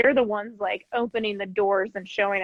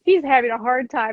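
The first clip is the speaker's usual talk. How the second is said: storybook voice, slightly raised; acted story reading; 2 semitones higher, 3 dB louder than usual. Shown as a demonstration. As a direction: read it like a sympathetic children's story. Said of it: "I'll, like, act it".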